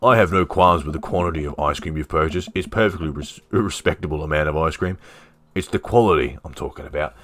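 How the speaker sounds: lightly voiced Australian man; Robert, Aussie accent. Robert objects to the ice cream's quality, light Aussie accent. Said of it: "He was Aussie, right?".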